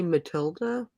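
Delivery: "Matilda" with a hard T; plain T pronunciation. Shown as a demonstration. Guest answering how to pronounce a name, "Matilda" with T. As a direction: say "Matilda" with T, no "th" sound. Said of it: "How do you pronounce that?".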